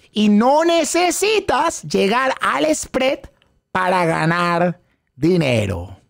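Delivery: slow teaching line. Shown as a demonstration. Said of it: "digan detrás de mí".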